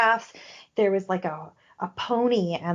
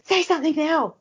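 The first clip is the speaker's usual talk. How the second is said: higher-pitched, insistent mock yell; retold yell; 8 semitones higher than usual. Spirit demanding a message be passed on, mock yelled. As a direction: imitate someone yelling an order, without full volume. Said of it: "And she kinda yelled at me".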